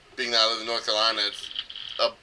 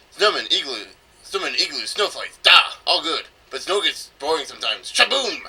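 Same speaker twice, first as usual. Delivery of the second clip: mock Russian accent; 3 semitones higher than usual. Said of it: "it wasn't a Russian accent".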